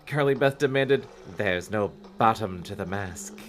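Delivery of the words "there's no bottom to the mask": slow, softer, low purr; low sultry voice. Acted.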